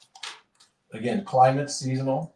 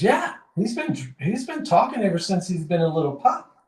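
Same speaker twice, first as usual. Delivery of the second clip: put-on higher, louder, offhand drunk voice; a drunk brushing off the question, higher and louder; casual drunk; 8 semitones higher, 4 dB louder than usual. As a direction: toss it off like a fibbing drunk. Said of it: "the drunk says".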